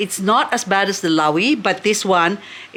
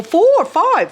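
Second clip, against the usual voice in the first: much higher, louder counting; getting excited; 11 semitones higher, 4 dB louder than usual. Real, not acted. Counting baby offshoots, higher and thrilled. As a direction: count up with rising glee. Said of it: "I'm getting excited".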